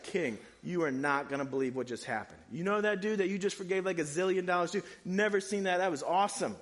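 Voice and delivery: gossiping servants, wide-eyed and thrilled; excited servants. Retold or imitated. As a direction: servants bursting to tell the king the news. Servants report to the king.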